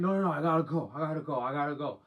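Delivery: rushed mock panic; retold freak-out. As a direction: imitate her hurried protest. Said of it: "She starts freaking out".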